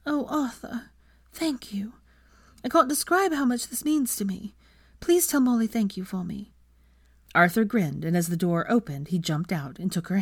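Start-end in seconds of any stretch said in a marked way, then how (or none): 0.0-6.5 put-on tearful young woman. Hermione moved to tears.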